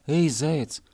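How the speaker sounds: a call from a hill. Acted. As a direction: hail the hare from afar. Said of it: "крикнул с холма медвежонок".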